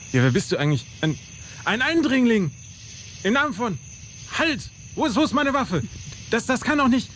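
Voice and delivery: flustered, stumbling over words; panicked stammer. Acted. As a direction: scramble for words in alarm. Soldier panics at intruder.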